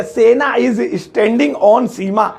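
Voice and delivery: slow drawn-out wrong sentence; slow mock-error delivery; mock wrong version. Shown as a demonstration. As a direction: stretch out the mistake. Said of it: "ऐसे नहीं बोलेंगे".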